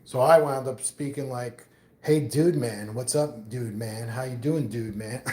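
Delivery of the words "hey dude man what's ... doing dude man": mildly mock the mixed slang, easygoing; lightly voiced hippy dippy. Streamer mocks his own mixed slang, light hippy drawl. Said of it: "I sounded like a real, real, uh, real hippy dippy there".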